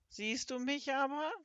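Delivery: high croaky question, rising at the end; croaking. A narrator's reading. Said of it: "quakte das Etwas".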